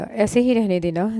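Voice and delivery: slow, unguarded murmur; slipped out softly. Acted. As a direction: let it slip out without meaning to. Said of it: "बेख्तियार फिसला". (बेख्तियार धीमे से)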